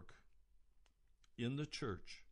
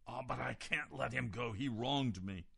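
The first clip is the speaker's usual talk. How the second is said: reluctant forgiver; 2 semitones higher than usual. Pretend. Imagined unforgiving listener objects.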